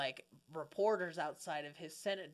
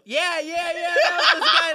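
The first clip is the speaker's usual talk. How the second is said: laughing; 11 semitones higher, 16 dB louder than usual. Real, not acted. Cracking up mid-story.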